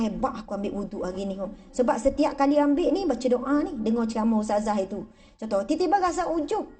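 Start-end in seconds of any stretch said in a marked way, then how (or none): 0.0-1.4 smug murmur. Acted. Smug self-praise quote.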